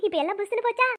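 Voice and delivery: amused question after a short laugh; happy laughing. Acted. Friend teases the girl who got beaten, happy laughing. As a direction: start with a giggle, then tease. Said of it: "சந்தோஷமா சிரிக்கிறியா?".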